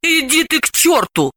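sharp, high retort; snappish. A narrator's reading. Delila brushes off her friend, snappish. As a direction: snap back in irritation. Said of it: "огрызнулась Далила".

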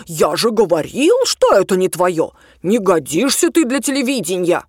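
a hint of a scornful father; lightly voiced disapproving dad; mocking her father. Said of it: "довольно зло спародировала манеру родного отца".

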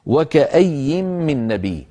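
slow, measured tajweed recitation; Quran recitation. Shown as a demonstration. Teacher to students: slow, drawn-out Quran recitation. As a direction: recite the verse slowly and carefully. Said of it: "أول كلمة فيها قوله تعالى".

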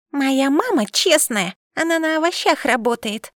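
put-on a small girl vouching for her mother; child's declaration. A narrator's reading. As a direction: state it earnestly like a small child. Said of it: "заявила Юла".

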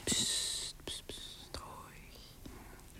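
breathy psst, fading to nothing; soft shushing whisper. Acted. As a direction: hush him gently. Shushing him before the kiss.

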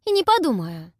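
huffy snort. A narrator's reading. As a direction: snort it back defiantly. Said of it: "фыркнула я".

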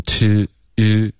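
"to" with a pouted "oo" vowel; over-rounded "to". Shown as a demonstration. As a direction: say "to" as a full, lip-rounded "too". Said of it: "半撅嘴唇了".

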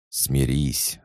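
playful mock villain hiss; sinister hiss. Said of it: "зловеще прошипел Алан". (зловещее шипение)

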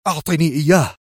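brusque narrated order; sharp demand. A narrator's reading. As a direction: demand it with a touch of edge. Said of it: "قائلًا في حدة".

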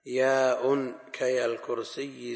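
slow "الكرسي" with a geminated final ya; "الكرسي" pronounced with a heavy "iyy"; doubled ya. Shown as a demonstration. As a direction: lean hard on the doubled ya of "الكرسي". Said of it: "وياء النسب كياء الكرسي مشددة".

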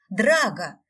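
loud yell of the name. A narrator's reading. Sisters yell at the rude dragon. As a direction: yell his name together. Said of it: "завопили мы".

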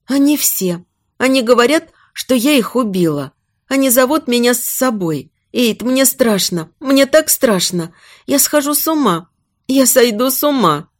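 high, fragile voice; frightened pleading. Acted. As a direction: confide your terror to someone you trust. Terrified woman clings to her husband.

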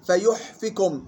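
فيحفكم as "fayuhfikum"; still ha, kasra. Shown as a demonstration. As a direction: rest on the ha of فيحفكم, then fi. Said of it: "إسكان الحاء وكسر الفاء". (فيحفكم بإسكان الحاء وكسر الفاء)

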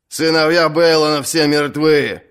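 jeering call from the crowd; mock her as only a daughter; mild shout. Ralf the Lame jeers at Asha, mild shout. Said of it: "крикнул Ральф Хромой".

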